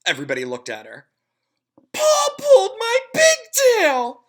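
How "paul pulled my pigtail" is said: high, loud, slow tattling shout; girl shouting. A narrator's reading. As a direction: shout it to the whole class. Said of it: "she shouted".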